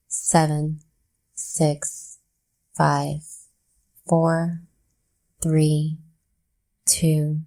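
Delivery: calm, unhurried meditation count with long pauses; guided breathwork. Real, not acted. Leads slow counted breathing exercise.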